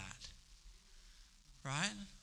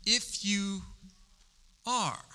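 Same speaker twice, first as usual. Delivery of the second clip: sly higher "If you are" with a mocking lift; devil's challenge; 5 semitones higher, much slower than usual. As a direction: goad him like the tempter. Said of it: "But the devil said".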